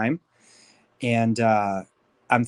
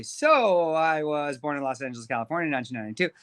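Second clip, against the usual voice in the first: mock rushed start; 4 semitones higher, faster than usual. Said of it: "just kidding".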